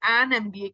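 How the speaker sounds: an M B A said slowly with "an" before the "em" sound; careful slowed model; slow demo. Shown as a demonstration. Teacher explains an M B A, slow demo. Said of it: "जब आप इसको एम को pronounce करोगे".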